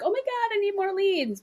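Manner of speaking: high, whiny mock panic; exaggerated high-pitched fretting. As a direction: play the frantic business owner. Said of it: "people are like".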